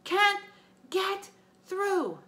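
high, loud wailing cry; big friend wailing, stuck outside. Acted. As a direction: wail in distress from far off. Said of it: "Tyson wailed".

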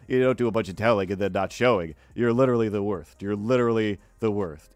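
stuffed-up character voice with a lisp; lisping, indignant sidekick. Acted. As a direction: scold a teammate as a lisping busybody. Sidekick berates the host.

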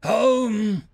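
dying soldier croaks a riddle slowly; croaked. Acted. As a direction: croak it out cryptically. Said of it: "croaked the armored figure".

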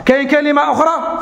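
ordinary delivery

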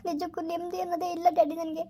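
crying. Acted. Daughter crying to father on phone.

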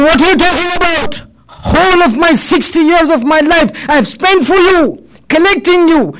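acted outrage, pitched high throughout; indignant protest. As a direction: reproach them, piling up each grievance. Dying man rebukes his wealth.

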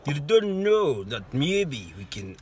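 slow, lightly attempted Russian accent. Parent trying their best accent, hesitant Russian. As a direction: drag it out in a tentative Russian accent. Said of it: "my best one is a Russian one".

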